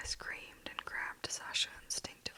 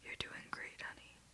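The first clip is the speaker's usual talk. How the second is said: softly comforting, trailing to a hush; calm her down tenderly; tender reassurance to a scared partner; gentle reassurance; 5 dB quieter than usual. Acted.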